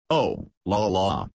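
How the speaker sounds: a slow, forced little laugh; mock amusement, brushing it off slowly; artificial laugh. A narrator's reading. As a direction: fake a light laugh, a touch shrill. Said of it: "but her laugh was a little artificial".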